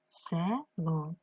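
"село" in two separate syllables, a clear "е" in the first; sounded out for spelling. Shown as a demonstration. Teacher showing how to write the word, syllable by syllable. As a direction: break "село" apart as if dictating it. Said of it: "Пишу «е»".

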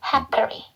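"happily" with a single P and final ee; model pronunciation. Shown as a demonstration. Teacher sums up the letter sounds, slow model "happily". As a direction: slowly model "happily" as hae-peo-ri. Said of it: "Y는 이 발음".

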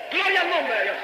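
high-pitched burst of praise; exclaimed praise. Real, not acted. Preacher breaks from his story to glorify God, exclaimed praise. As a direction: cry it out high, falling at the end.

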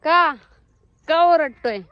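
loud question to an animal; calling out. Real, not acted. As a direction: raise your voice to ask the bleating one.

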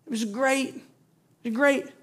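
lightly mock the longing for Egypt; preacher teasing the people's rosy memory of bondage; mock nostalgia. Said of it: "they're gonna".

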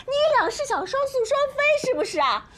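ordinary talk, nothing marked

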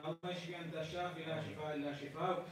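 rapid Arabic dua flowing into pleading English prayer; supplication prayer. Acted. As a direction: lead the congregation in heartfelt dua.

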